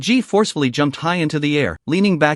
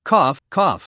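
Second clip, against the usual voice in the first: two hard wounded coughs; violent coughing. A narrator's reading. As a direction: cough like you're badly hurt. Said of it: "Li Ji suddenly coughed violently".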